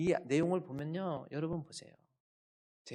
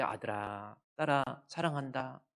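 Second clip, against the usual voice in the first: tender affirmation; slower than usual. Shown as a demonstration. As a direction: demonstrate gentle parental affection. Models loving words to children.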